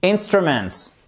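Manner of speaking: "Instruments" with the weight on "IN"; stress on first syllable. Shown as a demonstration. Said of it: "Où se trouve l'accent tonique? Juste ici". (accent tonique sur "IN" de "Instruments")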